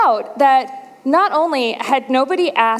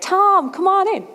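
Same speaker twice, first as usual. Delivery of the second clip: calling out; 10 semitones higher than usual. Retold or imitated. Doctor calls rep from office.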